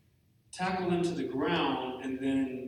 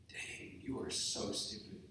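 imitating a critic; 3 semitones lower, 11 dB quieter than usual. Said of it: "one of you would come up to me and tell me".

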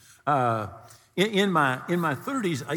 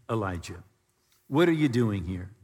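voice of God; 7 semitones lower than usual. A narrator's reading. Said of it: "the voice came to him saying".

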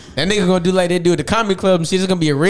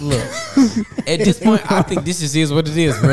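raspy, worn-out voice; lost voice, still recovering; hoarse voice. Real, not acted. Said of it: "the shit still sound like this".

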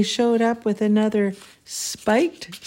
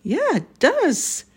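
holding back laughter; 8 semitones higher, slower than usual. Real, not acted. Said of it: "I can't help it but laugh".

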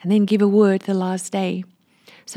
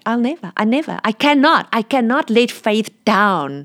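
voicing God firmly; 3 semitones higher than usual. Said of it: "God just said to me".

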